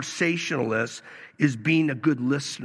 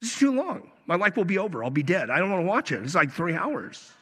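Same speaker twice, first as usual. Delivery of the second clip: hammed-up complaint about a long movie; husband mock-whining to his wife about a three-hour movie; faster than usual. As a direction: whine it like it's a life sentence. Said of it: "She goes".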